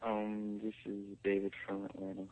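soft, hushed caller voice; quiet phone voice. Real, not acted. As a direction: keep it down so nobody hears. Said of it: "could you talk a little quieter".

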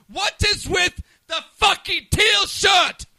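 high, slow teasing shout; mocking shout. Real, not acted. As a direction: bellow the question in mock outrage. Mocking the guest's shirt.

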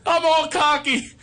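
high, breaking up with laughter; laughing. Real, not acted. Telling how the car battery died, laughing. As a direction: squeeze the words out through real laughing.

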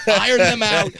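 high, earnest comic reassurance; mock consoling. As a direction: reassure the kid, overdoing it. Mock consoling child of divorce.

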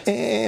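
one little mock whimper; imitated crying. Host mimics daughter's friend on the phone, mock crying. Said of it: "it was like her crying".

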